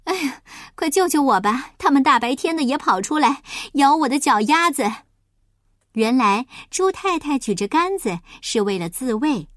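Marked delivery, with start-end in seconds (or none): 0.1-4.8 higher, louder mild wail; pitiful cry for help. Acted. Mrs. Pig cornered by rats, crying pitifully for help. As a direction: plead for rescue, a touch pitiful. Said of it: "他可怜巴巴地叫".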